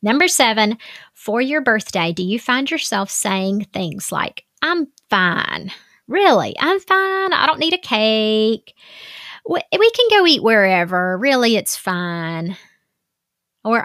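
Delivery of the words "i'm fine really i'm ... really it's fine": acted protest that all is fine; mock self-denying reassurance; brushing it off. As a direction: wave away the fuss, swooping up on the insistence. Voicing someone declining a birthday fuss.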